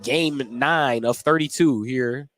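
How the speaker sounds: brisk courtside call of the action; steady announcer's game call; live play-by-play. Acted. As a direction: call each pass as it happens.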